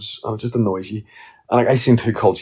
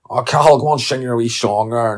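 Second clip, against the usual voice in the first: pub crowd coaxing; 5 semitones higher, 4 dB louder than usual. Retold or imitated. Drinkers coaxing young Cathal to sing, loud and high. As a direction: egg the kid on to sing. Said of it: "it's like".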